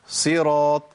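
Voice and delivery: صراط with a full emphatic ص; heavy sad. Shown as a demonstration. Teacher modelling the correction, heavy emphatic sad. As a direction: press the tongue up for a heavy ص in صراط. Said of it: "بحقق الإطباق".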